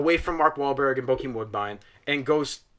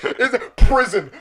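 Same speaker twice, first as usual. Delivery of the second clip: slow, higher deadpan mockery; slow, mocking "It's prison"; mock dramatic; 9 semitones higher, 9 dB louder, slower than usual. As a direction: drag out "prison" in disbelief. Mocking the bare title card.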